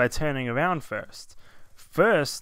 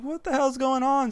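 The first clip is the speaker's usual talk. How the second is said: much higher, alarmed "what the hell"; startled shock; 11 semitones higher than usual. Retold or imitated. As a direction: jump up in pitch as if spooked. Dog suddenly starts talking.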